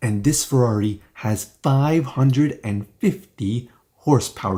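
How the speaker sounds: put-on each syllable accentuated one by one. Imitating Doug DeMuro's video delivery: Doug DeMuro impression, every syllable stressed. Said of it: "He's going to say it like that, like accentuating every little syllable".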